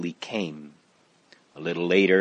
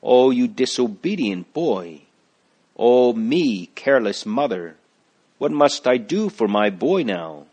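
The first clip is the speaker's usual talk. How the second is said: higher, louder, near tears; tearful lament; 3 semitones higher, 4 dB louder than usual. Acted. Mother lamenting her poisoned son, close to tears. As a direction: cry out at the boy and at herself. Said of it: "Tears sprang into Christiana's eyes".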